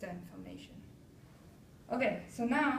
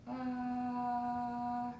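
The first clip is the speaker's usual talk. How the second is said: steady sustained ah, a bit higher; demo held vowel; 3 semitones higher than usual. Shown as a demonstration. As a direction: hold one pitch on ah. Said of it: "I want you to go".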